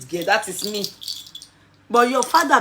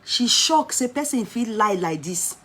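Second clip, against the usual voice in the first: mock denial; 4 semitones higher, 3 dB louder than usual. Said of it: "I said".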